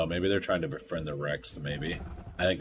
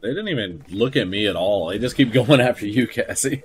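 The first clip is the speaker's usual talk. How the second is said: laughing disbelief; 5 semitones higher, 12 dB louder than usual. Real, not acted.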